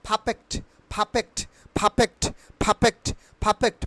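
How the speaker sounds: "perfect" with the R left silent. Shown as a demonstration. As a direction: say "perfect" as "paa-fekt", no R. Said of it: "আটি দেখতে পাচ্ছ, সেটা উচ্চারিত হবে না". ("perfect"-এ R উচ্চারণ না করে)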